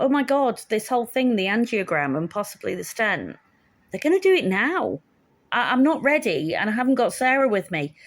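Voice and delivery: mock-panicked realisation; retold panic. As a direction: replay a sudden jolt of alarm. Recalls sudden panic before procedure.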